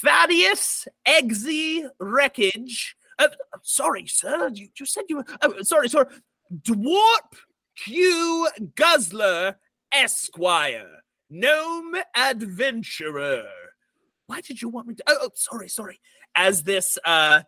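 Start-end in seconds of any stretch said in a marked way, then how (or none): 0.0-2.9 high, slow announcer call; goblin announcer shout. Acted. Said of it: "goblin, uh, announcer shout". 3.2-16.0 high, nervous goblin stammer; flustered goblin announcer. Acted. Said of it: "same goblin announcer".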